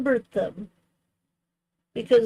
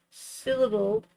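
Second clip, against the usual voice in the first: "syllable" jumps much higher with a rise; 9 semitones higher than usual. Shown as a demonstration. Stumbling over the word for a friend, going high. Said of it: "The emphasis is on the sy".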